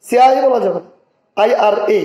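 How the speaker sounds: firm classroom emphasis; emphatic. Shown as a demonstration. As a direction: press hard on বলা যাবে না. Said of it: "letter অনুযায়ী".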